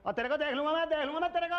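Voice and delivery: high-pitched blustering threat; heated threat. Acted. Man threatening his queue rival as his turn comes, heated. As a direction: throw a parting threat, pitch jumping up.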